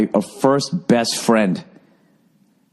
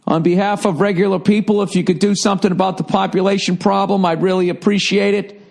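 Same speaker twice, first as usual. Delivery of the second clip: awkward speech; 9 semitones higher than usual. Retold or imitated. Awkward speech to the tribal council.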